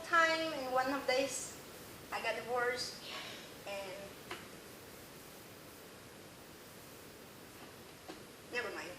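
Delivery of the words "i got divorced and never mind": crying. Real, not acted. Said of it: "I've been crying throughout this speech".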